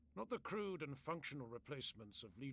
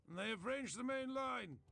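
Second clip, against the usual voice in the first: much higher, louder alarm call; urgent warning; 10 semitones higher, 5 dB louder than usual. A narrator's reading. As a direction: cry out the warning against his will. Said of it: "he said instead".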